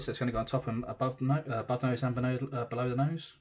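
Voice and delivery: stumbling over the words, restarting twice; tongue-tied stumble. Real, not acted. Explaining the shadow under the nose, tongue-tied and restarting. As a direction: trip on "no-" and "above nose" then start again. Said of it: "God, I'm getting tongue-tied on that one".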